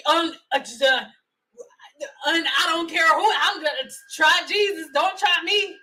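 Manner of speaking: mock her husband refusing a haircut. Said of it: "his ass would be walking around here talking about".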